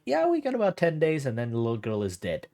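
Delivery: mock casual. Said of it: "you're just very casual, like".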